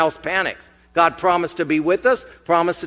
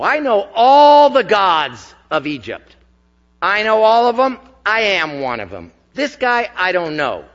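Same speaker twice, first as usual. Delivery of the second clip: boastful Pharaoh; 3 semitones higher, 4 dB louder than usual. Acted. Pharaoh boasting of Egypt's gods.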